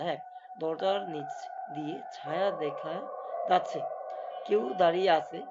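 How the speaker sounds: slow horror storytelling; suspense story narration. A narrator's reading. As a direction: draw the scene out slowly, pausing between phrases. (ধীরে ভূতের গল্প বলা)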